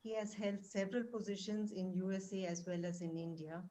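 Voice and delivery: faint voice far from the mic; barely audible. Real, not acted. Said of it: "Your, your voice is very low".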